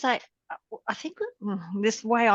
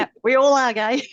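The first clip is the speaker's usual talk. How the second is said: cheery reassurance; 4 semitones higher, 7 dB louder than usual. Real, not acted. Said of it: "you're doing brilliantly".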